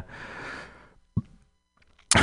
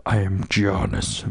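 mock Greek accent. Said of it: "fucking Balade voice".

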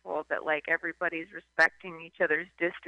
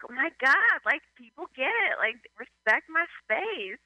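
a touch higher, lightly voiced; imitated relieved loner; 5 semitones higher than usual. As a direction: gush about personal space. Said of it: "it would be like".

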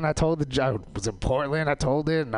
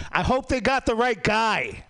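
mock hopeful; 9 semitones higher than usual. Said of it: "I said to my wife, I was like".

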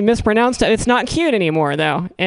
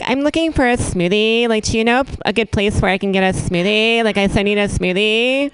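put-on Smoothie Girl. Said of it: "You'll remember this character".

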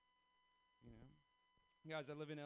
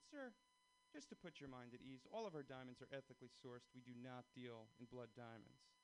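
soothing saleswoman; 3 semitones lower, 5 dB quieter than usual. Retold or imitated. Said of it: "She said".

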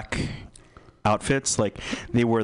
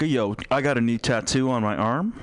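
catching oneself loud. Retold or imitated. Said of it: "Sorry, too loud".

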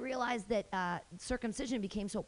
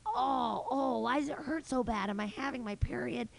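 mock pained whine; 2 semitones higher than usual. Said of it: "terrible cramps and I was like".

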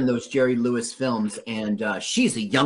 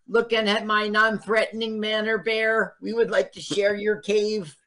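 mock pompous Val; 6 semitones higher than usual.

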